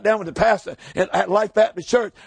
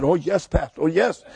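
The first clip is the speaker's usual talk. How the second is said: humble pastor's reply; 4 semitones lower than usual. Retold or imitated. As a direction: play the modest old pastor answering humbly. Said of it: "He said".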